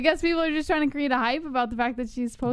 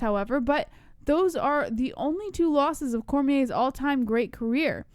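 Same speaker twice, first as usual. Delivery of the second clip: measured newsreader delivery; news read. Real, not acted. Co-host reading fight news to listeners, news read. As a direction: read it out like a sports news item. Reads a news story aloud.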